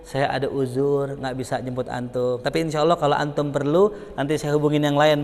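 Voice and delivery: softly apologising to the teacher; polite refusal. Shown as a demonstration. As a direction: decline gently and respectfully. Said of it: "bilang aja".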